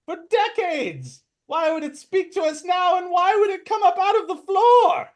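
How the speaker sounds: high squeaky kobold arguing; skeptical kobold. Acted. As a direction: argue it like a clever little kobold. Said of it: "the one that saw it was an illusion is like".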